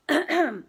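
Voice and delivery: loud morning throat-clear. Real, not acted. Host early on a livestream, clearing morning throat. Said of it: "I still have the morning throat".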